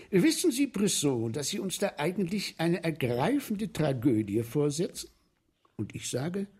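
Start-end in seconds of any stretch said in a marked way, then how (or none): 0.1-5.1 quoting the count. Retold or imitated. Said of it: "Und zu mir sagt er".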